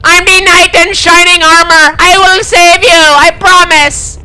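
high, loud hammed-up hero vow; heroic knight. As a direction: play the gallant rescuer. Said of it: "I gotta commit to the roleplay".

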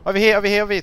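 calling from far away. Real, not acted. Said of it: "to my voice".

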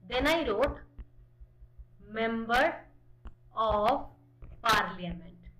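"member of parliament" said word by word with loud pauses; spelled out slowly. Shown as a demonstration. Teacher spells out MP for class, slow loud word by word. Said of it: "First I wrote M P".

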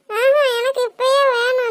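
acted crying. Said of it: "அழுது கேட்டா".

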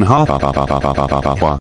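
low, mechanical, repeated "ha"; mock laugh. Narrator acting out his rampage, low mechanical laugh. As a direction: stiff low looping laugh.

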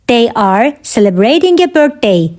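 measured, separated phrases; careful teaching repeat. Shown as a demonstration. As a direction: pause after "They are". Teacher repeats answer for learners.

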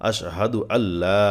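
আল্লা with the লা held for three alif lengths; three-alif stretch. Shown as a demonstration. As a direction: draw out লা in আল্লা long. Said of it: "লাতে তিন আলিফ টান". (আল্লা-র লা তিন আলিফ টেনে)

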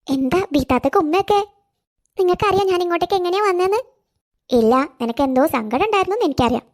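put-on a fond elderly neighbour, coaxing; kindly old neighbour woman. Neighbour answers child's kiss. (സ്നേഹമുള്ള പ്രായമായ അയൽക്കാരി, താഴ്ന്ന ശബ്ദത്തിൽ)

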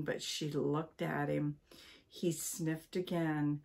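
lively read-aloud storytelling voice; story narration. A narrator's reading. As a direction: read it to listeners like a bedtime book.

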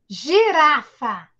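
slow clapped syllables; slow teacher demo. Shown as a demonstration. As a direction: spell out each syllable slowly for children. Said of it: "Vamos lá nós dois".

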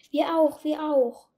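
two little animals piping up eagerly; calling out. A narrator's reading. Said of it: "riefen der kleine Igel und die".

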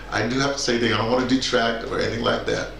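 ordinary talk, nothing marked

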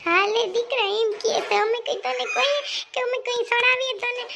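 bitter retort to her son in a family quarrel; sarcastic retort. Acted. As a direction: throw it back at him with scorn. Mother-in-law retorts in a quarrel.

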